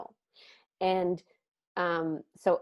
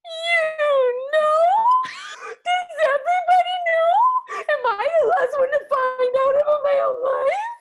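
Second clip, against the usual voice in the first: loud, very high mock wail; hammed-up sobbing squeal of disbelief; Claire Danes ugly crying; 12 dB louder than usual. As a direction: wail it way up high, exaggerated bawling. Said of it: "I'm Claire Danes ugly crying".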